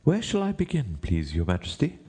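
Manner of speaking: high deferential question; White Rabbit. A narrator's reading. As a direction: ask the king politely, starting high. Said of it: "he asked".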